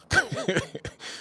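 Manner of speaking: shrieking mocking laugh; high laugh after the comeback; high squealing laugh. Real, not acted.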